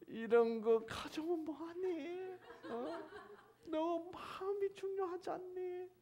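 high, drawn-out coaxing voice; gentle right reading. Shown as a demonstration. Preacher shows how God's words should read, coaxing. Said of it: "이런 식으로 읽어야지".

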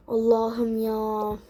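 exasperated. Real, not acted. Exasperated after call.

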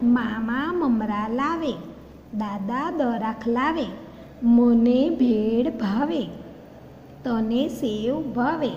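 sing-song classroom recitation; reading aloud to class. Shown as a demonstration. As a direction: chant the rhyme for the children. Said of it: "वांचो अने बोलो".

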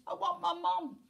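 put-on high, childish storybook wail; screamed wail. A narrator's reading. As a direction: wail high for mummy, hammed up. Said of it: "he screamed".

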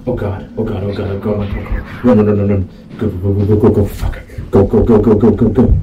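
frantic screaming to flee; panicked yelling. Real, not acted. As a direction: shout in pure panic, running. Fleeing panicked in game.

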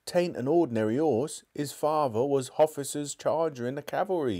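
high, urgent London cabman dropping his h's; cockney cabby. Acted. Cabby insisting to the policeman that he handle the horse, urgent cockney. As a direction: plead to get to your horse.

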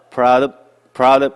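"proud" said short, "of" all but swallowed; reduced "of". Shown as a demonstration. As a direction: punch "proud", let "of" vanish. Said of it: "들리지도 않아".

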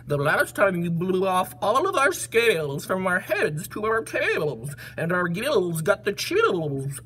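slow, bubbly, wavering fish voice; wobbly fish. Acted. Fish beg the elephant not to sneeze, slow wobbly voice. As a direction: draw out a watery, gargled plea. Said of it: "said the fish".

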